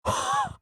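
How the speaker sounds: sudden very high, loud yelp; short burst of high-pitched startled laughter; startled squeal. Real, not acted. Startled by something in the game.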